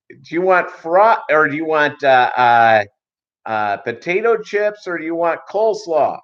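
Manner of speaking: high, overly clear side-dish list. Retold or imitated. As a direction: spell out the options like to a deaf customer.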